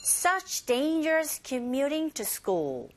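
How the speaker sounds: slow, deliberate model reading; very slow "such dangerous commuting to school" with each content word stressed; slow teaching model. Shown as a demonstration. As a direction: stretch each content word clearly for learners. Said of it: "강세가 있습니다".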